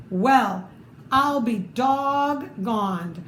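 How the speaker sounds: slow, drawn-out amazement; amazed squeak. Acted. Mouse chief amazed the plan worked, slow and drawn out. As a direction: savour the surprise. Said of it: "squeaked the Big Cheese".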